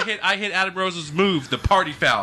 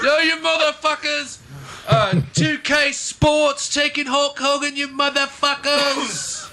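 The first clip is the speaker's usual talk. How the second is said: mock outraged rant; 8 semitones higher, slower than usual. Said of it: "ranting at 2K Sports".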